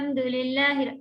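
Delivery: suddenly loud, drawn-out chant; imitating loud recitation. Teacher showing students the unbalanced way to begin, loud recitation. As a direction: mimic a student launching loudly and slowly into the verse. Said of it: "ایسے تیز آواز سے نہیں".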